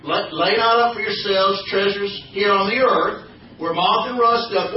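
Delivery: slow, measured Bible verse; scripture recitation. Shown as a demonstration. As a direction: recite it slowly so the church joins in. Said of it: "reciting scripture".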